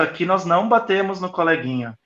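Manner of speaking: patient preschool teacher voice; calm teacher to a six-year-old. Shown as a demonstration. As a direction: set a limit kindly, eye to eye with a child. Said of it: "eu tô falando você com seis aninhos".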